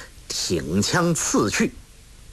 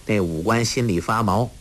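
usual speaking voice

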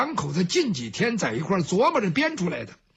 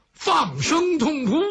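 wailing; 5 semitones higher, slower than usual. A narrator's reading.

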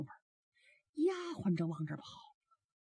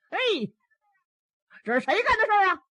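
higher, louder, fast angry demand; an old man furious at being tricked; angry outburst; 10 semitones higher, 8 dB louder than usual. Acted. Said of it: "气得把这笤帚一扔". (气急败坏的高声喝问)

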